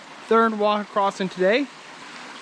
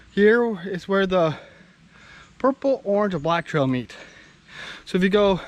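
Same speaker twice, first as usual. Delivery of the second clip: winded after a steep climb; out of breath. Real, not acted. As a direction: talk while catching your breath. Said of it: "Sorry I'm out of breath".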